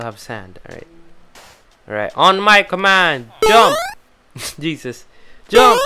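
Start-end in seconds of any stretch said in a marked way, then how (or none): 2.2-3.8 high commanding shout; shouting orders over battle. Acted. Commanding villagers to jump. 5.5-5.8 high commanding shout; shouting orders over battle. Acted. Commanding villagers to jump.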